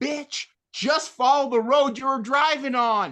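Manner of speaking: mock yelling, very high. Reviewing a bad horror movie, acting out yelling at the characters on the tv. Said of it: "And I'm yelling at the TV".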